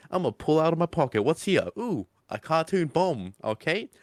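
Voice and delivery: a hint of a goofy cartoon doctor; Faust. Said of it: "his whole personality is really goofy and funny".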